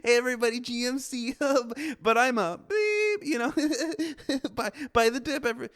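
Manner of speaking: high, loud hyped-up finance bro; loud cocky finance bro. Retold or imitated. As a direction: shout it like a Wall Street Bets guy. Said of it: "that's what finance people sound like to me".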